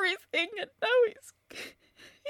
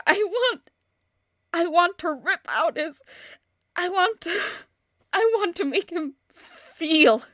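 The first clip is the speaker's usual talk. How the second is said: angry; 4 dB louder than usual. Acted. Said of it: "I'm so, so angry".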